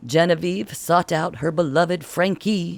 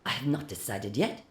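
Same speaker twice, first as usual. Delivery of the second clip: cold reply; 8 dB quieter than usual. A narrator's reading. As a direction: let each word chill. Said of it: "came the cold reply".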